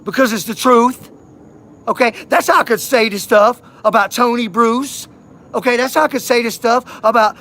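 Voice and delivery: loud and high, pushing hard that it's all true; nearly shouting in real frustration; heated insistence. Real, not acted.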